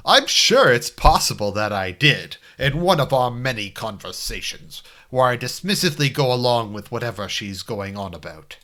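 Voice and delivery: put-on dramatic voice-actor delivery; Dan Green. Game player trying a voice for his own character, Dan Green voice. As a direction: lay on an anime dub hero's voice. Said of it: "I could do a Dan Green voice".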